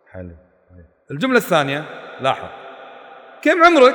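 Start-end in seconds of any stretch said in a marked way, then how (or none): 3.4-3.9 higher, louder scornful question; a derisive taunt; mocking contempt. Shown as a demonstration. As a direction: belittle them with the question. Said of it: "الثانية فيها احتقار واستهزاء".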